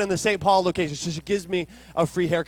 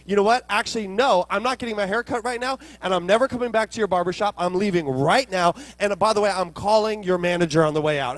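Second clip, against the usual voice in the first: retold customer blow-up, raised voice; fed-up balking; 2 semitones higher, 4 dB louder, faster than usual. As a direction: act out storming off with a threat. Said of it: "it just pushed my buttons".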